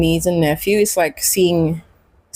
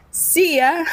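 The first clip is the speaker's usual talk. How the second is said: sing-song goodbye; 9 semitones higher than usual. Retold or imitated. Sending the kids back to mom.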